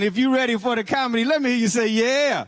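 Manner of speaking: crowd hype. Real, not acted. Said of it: "host hyping crowd".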